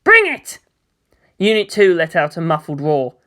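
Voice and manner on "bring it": put-on high, loud girl challenge; cocky dare. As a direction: throw down the challenge. Asuka dares the enemy.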